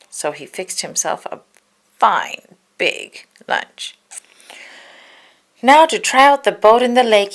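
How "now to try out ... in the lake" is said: eager Donald. A narrator's reading.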